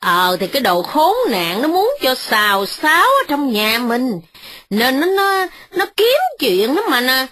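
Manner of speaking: put-on old mother scolding her daughter-in-law, frowning. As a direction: answer with a furrowed frown. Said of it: "chau mày mà đáp rằng".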